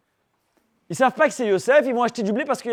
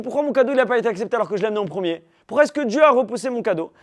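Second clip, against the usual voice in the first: aggrieved complaint; 4 semitones higher, 3 dB louder, faster than usual. Acted. Cain complaining about his gift.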